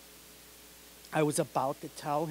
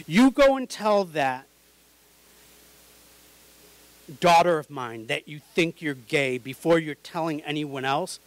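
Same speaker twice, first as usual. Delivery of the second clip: scolding mom; 6 dB louder than usual. Retold or imitated. Mom scolding her son for telling his sister, loud and angry. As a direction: tear into him like an upset mother.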